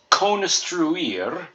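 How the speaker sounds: construir ending in ear; careful construir. Shown as a demonstration. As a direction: model construir slowly, clear ending. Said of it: "I R is pronounced ear".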